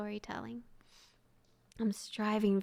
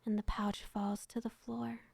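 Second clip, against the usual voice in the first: whispered story narration. Acted. Streamer reads a sad story to her chat, whispered narration. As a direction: breathe the tale out gently to listeners.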